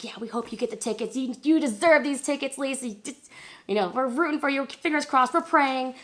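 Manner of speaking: lifted, singsong supportive voices; encouraging coworkers. Retold or imitated. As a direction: imitate well-wishers rooting for a friend. Coworkers cheering her on, retold.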